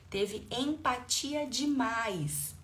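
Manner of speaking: "empatia demais" slow and stretched; drawn-out emphasis. Real, not acted. Coach repeating the key phrase, "empatia demais" drawn out slowly.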